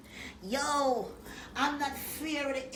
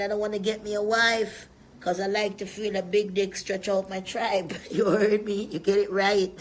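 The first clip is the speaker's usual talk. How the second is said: loud boasting; 2 semitones lower, 6 dB louder than usual. Real, not acted. Boastful rant, shouting at rival.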